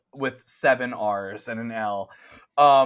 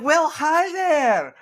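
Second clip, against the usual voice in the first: high, bright-ish Scottish shopkeeper voice pitched way up; Scottish accent; 6 dB louder than usual. Acted. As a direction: play the cheerful Scottish cookie shop owner, very high. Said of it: "She was Scottish".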